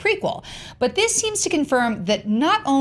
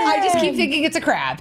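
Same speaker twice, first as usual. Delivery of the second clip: excited shout; 5 semitones higher, faster than usual. Real, not acted. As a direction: burst out with the idea.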